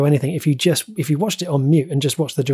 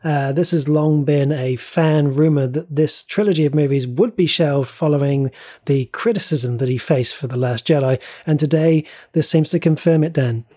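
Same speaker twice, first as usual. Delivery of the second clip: reporter voice. Pretend. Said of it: "That's my reporter voice".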